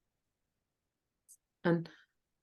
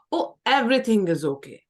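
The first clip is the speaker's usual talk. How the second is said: false reassurance; 4 dB louder than usual. Shown as a demonstration. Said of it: "don't reassure people".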